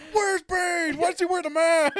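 imitating a villain, half laughing; mock villain. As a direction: laugh through a hammed-up henchman line.

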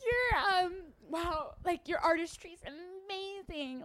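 tearful. Acted. Starstruck fan gushing.

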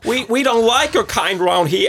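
a hostile Irish villager; Irish accent. Acted. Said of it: "Det er mitt forsøk".

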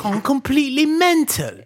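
mock British accent. Mimicking British slang to friends, mock British accent. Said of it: "I'm literally mocking it".

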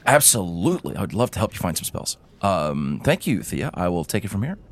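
quick, keen, spry reply; eager old gnome. Acted. Gnome leaps up to help Chris, eager. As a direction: hop to it and help. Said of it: "Derek, like, quickly hops up".

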